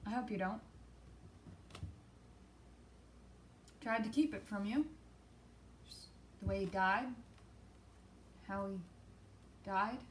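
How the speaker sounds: low, soft and halting, with long gaps; hushed confession. Acted. Parent haltingly telling Evan of the father's death, hushed. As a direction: broach it softly, reluctantly, in broken phrases.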